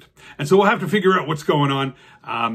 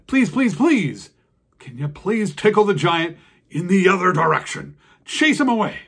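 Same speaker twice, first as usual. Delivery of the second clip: pleading worms; 3 semitones higher, 4 dB louder than usual. Acted. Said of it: "And they asked".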